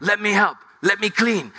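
put-on toddler son. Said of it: "he's like".

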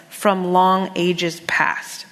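slowly stressing each word; slow emphasis. Shown as a demonstration. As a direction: lean on long ages past. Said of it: "key in that phrase".

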